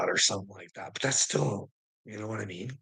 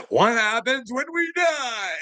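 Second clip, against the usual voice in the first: much higher, slow drawn-out shout; shouted question; 13 semitones higher, 3 dB louder than usual. Real, not acted. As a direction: bellow the question at the rich. Question then shouted repeat.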